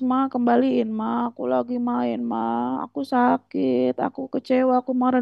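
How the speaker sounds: a hint of a tearful child pleading; mock crying child. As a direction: imitate a kid whining at mama. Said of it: "Ketika dia nangis".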